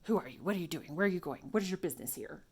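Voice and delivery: rapid-fire questions from a territorial dog; suspicious guard dog. Acted. First dog questioning a passerby, suspicious and demanding. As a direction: interrogate the intruder like a guard dog. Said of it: "The first dog is like".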